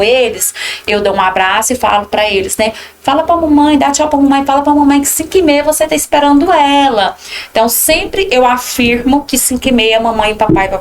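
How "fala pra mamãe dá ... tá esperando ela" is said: put-on coaxing a toddler. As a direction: coax the little one to wave goodbye to mom. Teacher coaxing child at drop-off. (professora falando carinhosamente com a criança, voz mais aguda e animada)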